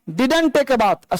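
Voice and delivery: very slow, word by word; dragging reading demo for a class; slow read-aloud. Shown as a demonstration. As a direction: stretch out each word as you read. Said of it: "तो Blackie जो बियर था".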